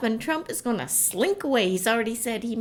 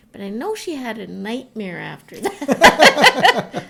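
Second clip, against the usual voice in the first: laughing; 2 semitones higher, 11 dB louder, slower than usual. Real, not acted. Laughing about daughter's nightmare.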